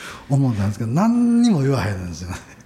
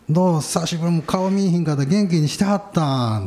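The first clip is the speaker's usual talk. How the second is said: lightly voiced old woman; 5 semitones higher than usual. Old woman hails him as someone she knows, lightly acted friendly greeting. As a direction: lightly act out a chatty greeting, stretching the end.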